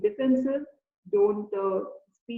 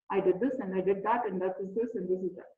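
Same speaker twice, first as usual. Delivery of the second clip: mock monotone; 4 semitones lower, 5 dB quieter than usual. Shown as a demonstration. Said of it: "no variation in the voice".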